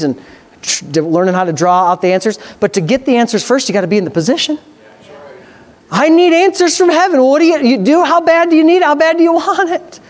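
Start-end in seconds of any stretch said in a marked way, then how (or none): 5.9-10.0 fervent challenge. Real, not acted. Preacher challenging the congregation.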